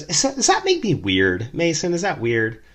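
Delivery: put-on drunk woman asking. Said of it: "And she goes".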